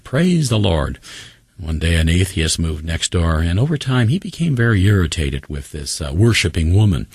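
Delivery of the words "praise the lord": high-pitched cry of praise, moderate volume; storyteller's mild mock shout; retold joyful shout. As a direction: imitate an exultant shout without much volume. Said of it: "she would shout".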